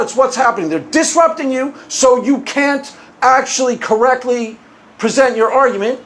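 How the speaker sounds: ordinary talk, nothing marked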